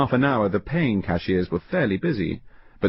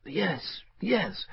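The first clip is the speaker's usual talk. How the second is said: higher, much softer hurried yes; nervous clergyman; 10 semitones higher, 7 dB quieter than usual. Acted. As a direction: answer too quickly, uneasy.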